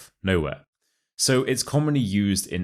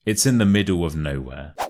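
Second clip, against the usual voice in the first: "middle" and "nowhere" stressed in a connected phrase; emphasis on "middle" and "nowhere"; 3 dB louder than usual. Shown as a demonstration. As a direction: run it together, still stressing "middle" and "nowhere". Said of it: "put the stress on the words middle and nowhere".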